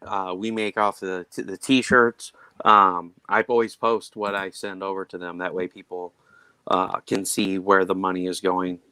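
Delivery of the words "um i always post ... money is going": talking through hiccups; hiccupping between words. Real, not acted. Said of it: "I got the hiccups".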